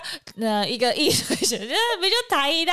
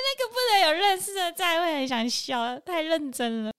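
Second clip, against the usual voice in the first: laughing; 4 semitones higher than usual. Real, not acted.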